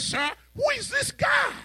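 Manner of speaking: high, loud outraged questions; indignant shout. Acted. David protesting to the king, loud and high. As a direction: demand it, stunned at their fear.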